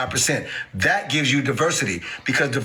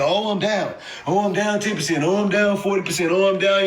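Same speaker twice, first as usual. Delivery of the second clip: mock panicking investor; 3 semitones higher than usual. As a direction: mimic a nervous holder checking prices. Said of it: "and you're".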